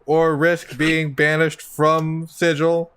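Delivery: measured, even announcement with little pitch movement; lightly voiced warning announcer. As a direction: recite it like a standard warning. Game master repeats the warning.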